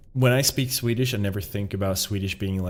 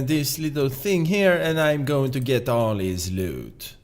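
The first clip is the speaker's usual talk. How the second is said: higher, put-on Swedish accent for a boastful walrus; Swedish-accented walrus character; 3 semitones higher than usual. Walrus announcing his plan to get all the loot, Swedish-accented character. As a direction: play a walrus villain with a heavy Swedish accent. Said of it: "emulate his voice more".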